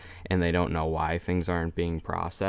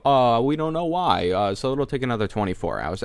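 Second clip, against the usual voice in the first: mock clueless rep; 3 semitones higher, 3 dB louder than usual. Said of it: "and then I call".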